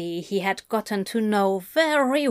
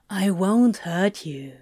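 soft reassuring. A narrator's reading. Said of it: "with a soft smile".

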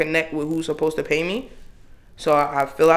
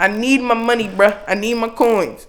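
high-pitched, emphatic demand; unfiltered exasperation; 6 semitones higher than usual. Retold or imitated. Voicing the real feeling behind a polite email, exasperated. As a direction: insist on it in a comic, pitched-up rant. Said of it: "translating it to how it really felt".

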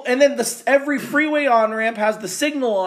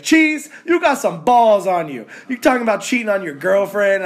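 teasing listener; 2 semitones higher, 5 dB louder than usual. Retold or imitated. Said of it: "He's like".

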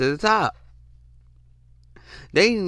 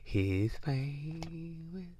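put-on swooning girl; 13 dB quieter, much slower than usual.

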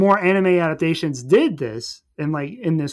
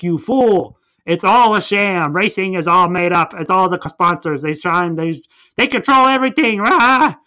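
hammed-up villain rant, louder and rising into a roar; 2 semitones higher, 4 dB louder than usual. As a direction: rant like a cartoon villain exposing the truth. Villain voiced ranting in recap.

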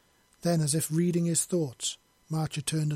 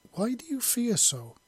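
mysterious voice; 9 semitones higher than usual. Acted. Unseen voice asks from nowhere.

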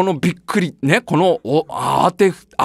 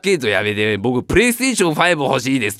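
put-on low, pleading kid; a kid begging for a new gift; child voice; 5 semitones lower than usual. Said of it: "とかいう子". (子供のおねだり)

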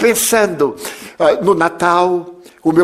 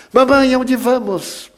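put-on child voice; 7 semitones higher, slower than usual. Boy asks mother in carriage.

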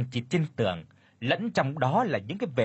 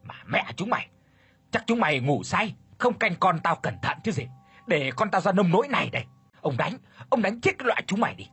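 furious cursing, higher and faster as he beats them; 6 semitones higher, faster than usual. A narrator's reading. Master beats the servants while cursing them, furious shouting. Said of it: "vừa đánh lão vừa chửi".

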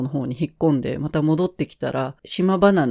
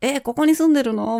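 surprised question; 8 semitones higher, 3 dB louder than usual. Retold or imitated. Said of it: "みたいに言われて".

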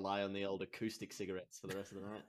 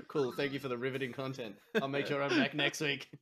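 sarcastic thanks; 4 semitones higher, 6 dB louder than usual. Acted. Sarcastic listener sign-off.

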